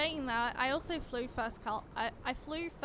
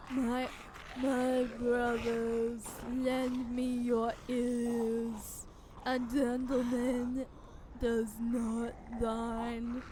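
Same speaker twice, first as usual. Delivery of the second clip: zombie; much slower than usual. Pretend. Zombie voice attempts continue.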